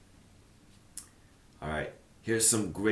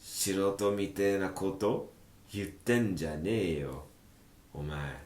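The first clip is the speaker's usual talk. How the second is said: rough retort. Acted. Voicing a rough manga retort.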